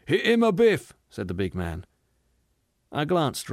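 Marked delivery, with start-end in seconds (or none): 0.1-0.9 high, loud rough call; rough egging-on. A narrator's reading. Big man urging passengers to hit him, loud. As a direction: call out to urge a thump.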